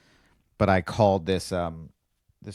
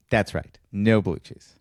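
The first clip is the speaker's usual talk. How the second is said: mock Emily voice; 3 dB louder, slower than usual. Imitating Emily's reply.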